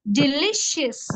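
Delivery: "Delicious" broken as de-li, then cious; syllable by syllable. Shown as a demonstration. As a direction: sound out the beats of "Delicious". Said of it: "three syllables".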